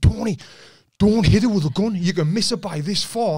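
mock lecture from the stunt man on set; stunt coordinator. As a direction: scold the careless actor. Stunt man scolding after the hit.

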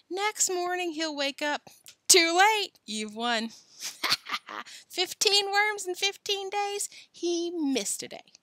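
high, excited crowing; gleeful gloating. A narrator's reading. Joe picturing Billy losing the bet, gleeful gloating. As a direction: crow over the win with a laugh.

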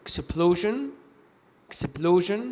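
"explosion" ending in a voiced zhen; sion as zhen. Shown as a demonstration. Teacher giving examples after a vowel, "explosion" with zhen. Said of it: "ينطقوا جن إذا سبقوا بحرف متحرك".

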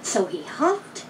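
very slow and drawn out; slow huffing narration. A narrator's reading. Narrator draws out the wolf's huffing, very slow. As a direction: stretch each word like a long breath.

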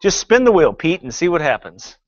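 lightly voiced game show host. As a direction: pitch it like a quiz host. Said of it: "Sounds like a game show host".

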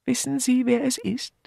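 a hint of an old lady asking; Miss Marple.

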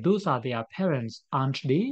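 those are their parents said very slowly; slow example read. Shown as a demonstration. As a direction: read it out slowly and clearly for the class. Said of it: "For example".

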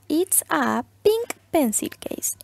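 slow whispered It's a pink pencil case; whispered slow model. Shown as a demonstration. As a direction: breathe out the sentence slowly. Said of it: "Entonces quedaría". (oración modelo susurrada y lenta)

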